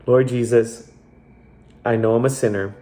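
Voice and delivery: measured prayer, long pauses between phrases; leading a prayer. Real, not acted. Host leading listeners in the prayer to accept Jesus, measured and prayerful. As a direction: pray it phrase by phrase for others to follow.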